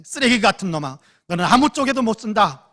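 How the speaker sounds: loud, high insulting shout; enraged mother yelling; retold yelling. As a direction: scream abuse at the son. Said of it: "소리쳤습니다".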